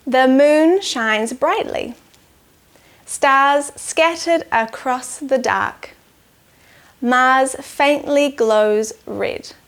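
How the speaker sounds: slow, measured haiku reading; poem reading. Acted. Teacher reading a haiku to children, slow and measured. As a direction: count each syllable as you read.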